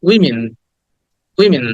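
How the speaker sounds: "উইমেন" as wi-min, both vowels short i; correct pronunciation. Shown as a demonstration. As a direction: model "উইমেন" with -min, falling at the end. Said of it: "ই বলতে হবে".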